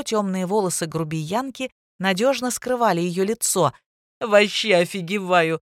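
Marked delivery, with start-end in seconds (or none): 4.2-5.6 groaning moan. Acted. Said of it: "простонал Тима".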